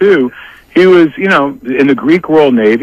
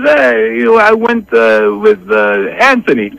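imitating dad, high voice; 6 semitones higher than usual. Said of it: "He goes".

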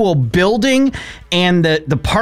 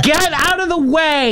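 mock annoyed driver; 14 semitones higher than usual. Mock yelling at fire-lane parkers.

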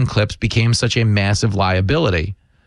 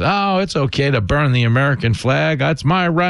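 mocking imitation; 2 semitones higher than usual. Commentator mimics streamer defending flag burning, mocking. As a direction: parrot his excuse, pitched up.

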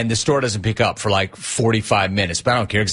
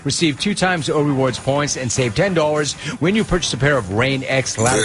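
ad read. Acted. Host reads sponsor ad.

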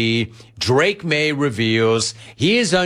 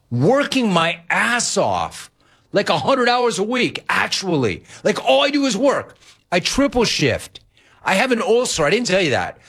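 higher, rising exasperation at the worry; exasperated rant; 4 semitones higher than usual. Retold or imitated. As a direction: vent it like a fed-up son. Retold heated reply to dad.

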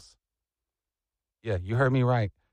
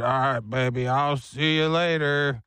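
casual goodbye; 2 semitones lower than usual. Retold or imitated. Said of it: "He said".

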